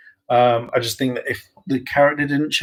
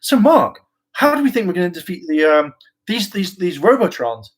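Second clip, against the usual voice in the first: teammate asking; 5 semitones higher than usual. Retold or imitated. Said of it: "every single time they would be like".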